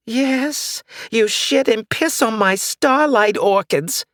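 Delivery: put-on high, crotchety old lady; cranky old woman. Old neighbor ranting about the witch, high and crotchety. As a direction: rant like a suspicious old neighbor.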